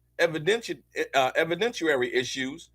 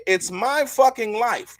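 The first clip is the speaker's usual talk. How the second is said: lightly higher, slow quoted line; milder retelling; 5 semitones higher, slower than usual. Retold or imitated. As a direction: repeat it with less fire. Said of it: "she say".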